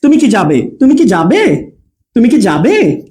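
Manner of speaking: "কি" short, joined to "তুমি" with no pause; quick attached কি. Shown as a demonstration. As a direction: run "তুমি কি" together, lift "যাবে" as a yes-no question. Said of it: "তাড়াতাড়ি হবে". ("তুমি কি" দ্রুত একসাথে, হ্যাঁ-না প্রশ্নের সুরে)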